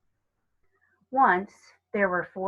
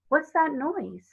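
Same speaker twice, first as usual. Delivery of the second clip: higher, slow startled question; a child suddenly hearing a noise in the dark; lightly voiced scared little girl; sudden fright; 7 semitones higher, slower than usual. A narrator's reading. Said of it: "said Lucy suddenly".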